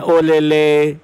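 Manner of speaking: lightly mocked cooing, held level; a hint of stretched-out baby talk; mimicked baby talk. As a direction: imitate an adult cooing at a baby. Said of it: "उसके लिए इनका वही word निकल रहे हैं".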